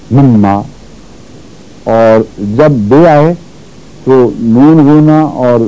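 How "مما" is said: "مما" with a held double m; doubled consonant. Shown as a demonstration. Teacher demonstrating shadda, "مما" with doubled m. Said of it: "اس میں شد پیدا کر دیتا ہے".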